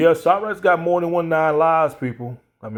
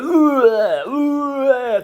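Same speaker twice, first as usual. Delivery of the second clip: mock retching; 11 semitones higher, 3 dB louder than usual. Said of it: "everybody gonna be puking like".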